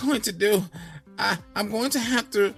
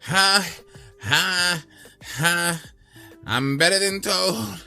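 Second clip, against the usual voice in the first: much higher, louder crowing; bawled boast; 9 semitones higher, 4 dB louder, slower than usual. Acted. Donkey at the fourth post, high loud bawl. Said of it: "he bawled".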